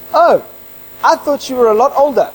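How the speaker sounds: imitating a surprised new acquaintance; mild surprise. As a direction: react as if meeting someone unexpectedly young. Assistant's reaction on meeting him.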